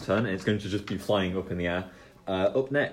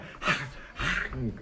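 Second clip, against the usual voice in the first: dragon growl; 5 semitones higher, 4 dB quieter than usual. Acted. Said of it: "I love Luke's dragon impression".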